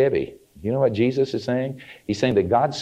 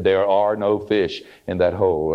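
slow, drawn-out pronouncement; echoing voice; 3 semitones lower than usual. Retold or imitated. Echoing voice warning the ice fisherman, slow and deliberate. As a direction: lightly imitate an echoing announcement from above. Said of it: "a voice in echo said".

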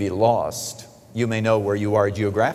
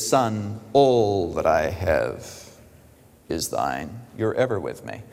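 lower, softer, slow and gentle; tender father; 6 semitones lower, 3 dB quieter, slower than usual. Acted. Father gently answering the elder son, low and soft. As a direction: soothe the resentful son quietly. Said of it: "He says".

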